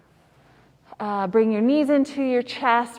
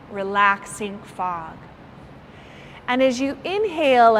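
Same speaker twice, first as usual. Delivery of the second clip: guided meditation. Acted. Yoga teacher guiding students through relaxing fog, calm meditation voice. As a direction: ease them into relaxation, lingering on phrases.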